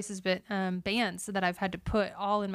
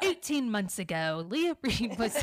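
slow, dramatic story voice, laughing; mock documentary narrator; slower than usual. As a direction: narrate like a tearjerker bio.

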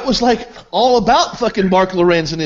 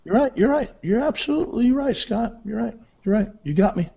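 higher, softer placating singles; mock agreement; 3 semitones higher, 5 dB quieter than usual. Real, not acted. Guest pretending to concede to Scott's rant, mock agreement. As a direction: humour him with soft, raised-pitch agreement. Giving in mockingly during an argument.

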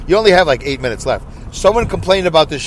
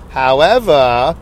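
put-on drawn-out Southern Jewish lady accent; slow, put-on Southern Jewish accent; 3 semitones lower, much slower than usual. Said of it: "I'm gonna do it like a Jewish lady, a Southern Jewish lady".

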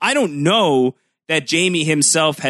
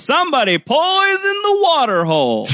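gruff tinny action figure; faster than usual. Retold or imitated. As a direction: talk like a talking action figure toy. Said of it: "pull the drawstring on the back of the action figure".

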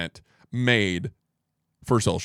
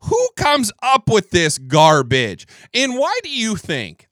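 scornful; 6 semitones higher, 5 dB louder than usual. Real, not acted. Mocking the story.

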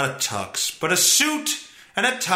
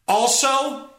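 ordinary delivery

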